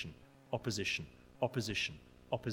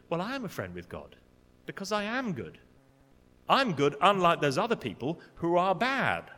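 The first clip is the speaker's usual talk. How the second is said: smug, higher and louder boast of being good; self-righteous; 4 semitones higher, 3 dB louder than usual. Retold or imitated. A proud religious person boasting to God, smugly self-righteous. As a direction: look down on the others. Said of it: "Self-righteous pride".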